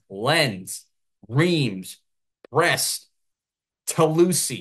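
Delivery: Lens, Reims, Brest, Toulouse read the English way; French club names said as if English words; American pronunciation. Shown as a demonstration. Commentator listing French clubs the American way. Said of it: "this is the American way to say these names".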